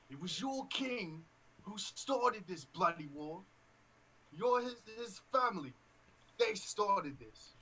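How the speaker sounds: loud, slow, angry orc yelling accusations; slow roaring orc voice; orc shouting. Acted. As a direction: bellow it like a furious orc soldier.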